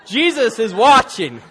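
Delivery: lightly voiced parrot warning; talking parrot. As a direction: land the joke as the parrot's call. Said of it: "And the parrot said".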